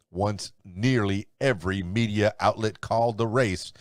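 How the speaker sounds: announcer-style headline read with emphatic quote marks; news read. Acted. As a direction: read the day's top stories like a radio newscaster.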